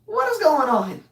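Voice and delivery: high, slow cry of disbelief; exasperated outburst. Retold or imitated. Son yelling at the drive-through server, exasperated. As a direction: throw up your hands at the server. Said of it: "I'm like".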